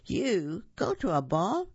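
sneering, slow, taunting; mock the girl with a cackling sneer; mocking stepsisters. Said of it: "they cackled".

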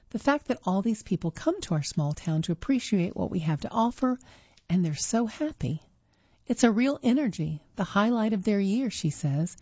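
measured, clearly phrased reading voice; article read-aloud. Real, not acted. Reader presenting a magazine article to listeners, measured read-aloud. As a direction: read it out evenly as prepared text.

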